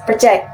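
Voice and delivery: "project" stressed on the second syllable. Shown as a demonstration. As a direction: lean on JECT in "project". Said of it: "word stress on the second syllable".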